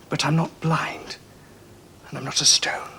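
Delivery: bitter whisper. Acted. Son accusing his father, bitter whisper. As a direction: hiss it out under your breath.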